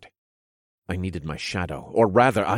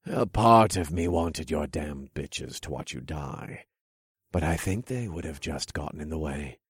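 sly villain king; 3 dB quieter than usual. Acted. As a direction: purr it out like a smug king. King voiced in story.

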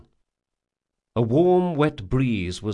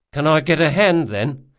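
Locke's voice; 6 semitones higher, 5 dB louder than usual. Acted. Locke asks Jean for help.

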